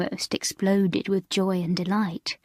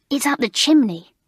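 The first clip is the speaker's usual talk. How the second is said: higher, louder burst of discovery; surprised exclaim; 6 semitones higher, 5 dB louder than usual. A narrator's reading. Alicia on hands and knees at the fireplace, surprised exclaim. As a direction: sing out the find. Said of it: "she exclaimed in surprise".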